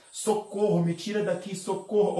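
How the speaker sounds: high, loud cries for help; retold yelling for help. Trapped spirit yelling to be freed, loud cries for help. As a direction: call out as if trapped and desperate. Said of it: "e gritava".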